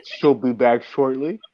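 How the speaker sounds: smooth TV news anchor read; newscaster voice. Pretend. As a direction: announce it like a newscaster. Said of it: "I'm using my newscaster voice".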